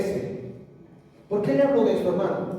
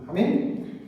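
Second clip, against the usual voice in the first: ordinary delivery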